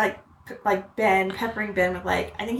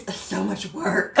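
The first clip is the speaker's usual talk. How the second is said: slow, drawn-out complaint; mock-weary imitation of a child; overworked kid; 2 semitones lower, 4 dB quieter, much slower than usual. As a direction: drag it out like a burdened child. Retold child complaining about school.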